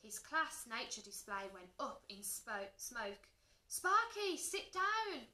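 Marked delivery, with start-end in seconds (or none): 3.7-5.3 high, loud teacher's command; ordering. A narrator's reading. Teacher to misbehaving dragon, loud order. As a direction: order it sharply across the room. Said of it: "ordered Miss Perks".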